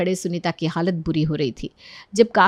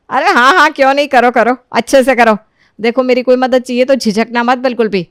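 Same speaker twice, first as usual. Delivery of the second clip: louder, eager supportive voice; encouraging mother-in-law; 4 semitones higher, 7 dB louder than usual. Acted. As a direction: cheer her on warmly. (बहू का हौसला बढ़ाती सास)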